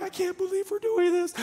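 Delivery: giggly excitement. Retold or imitated. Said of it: "they're like".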